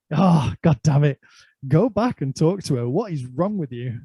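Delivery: exasperated self-scolding, retold; mad at himself. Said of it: "getting really mad at myself".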